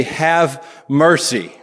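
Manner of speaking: slow, drawn-out "Have mercy."; a hint of the Full House catchphrase, stretched slowly; lightly imitating a TV catchphrase, slow; mild sitcom catchphrase. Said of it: "He would say".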